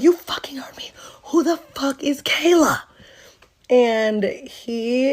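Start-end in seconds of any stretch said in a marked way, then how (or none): 0.0-2.8 high, voiced mock yell; mock angry demand. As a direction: act out an indignant confrontation. Acted confrontation, repeats the question.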